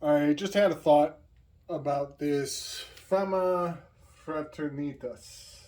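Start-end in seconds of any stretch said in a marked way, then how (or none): 1.7-5.6 slow, soft Spanish-accented "Fama Fraternitas". Shown as a demonstration. Musing aloud to viewers, "Fama Fraternitas" in a playful Spanish accent. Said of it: "which I'm actually saying with a Spanish accent".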